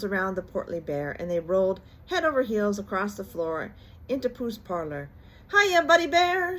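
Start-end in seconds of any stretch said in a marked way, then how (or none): 5.5-6.6 high, loud joyful greeting; happy shout. A narrator's reading. Tigger shouts a happy greeting to Pooh. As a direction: bellow hello to your best friend. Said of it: "shouted Tigger happily".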